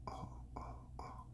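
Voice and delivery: soft isolated "ah" vowel; sounding out ah. Shown as a demonstration. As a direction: stretch out "ah" on its own, softly. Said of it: "Then you do".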